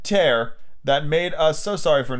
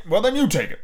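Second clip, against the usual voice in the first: put-on insistent child; 6 semitones higher than usual.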